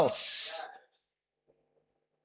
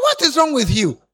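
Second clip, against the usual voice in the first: scolding line; 4 semitones higher than usual. Shown as a demonstration. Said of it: "I mean".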